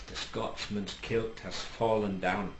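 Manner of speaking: soft, slow mock whisper of the password; whispers in his ear. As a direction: lean in and breathe the code phrase, understated. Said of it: "whispers in his ear".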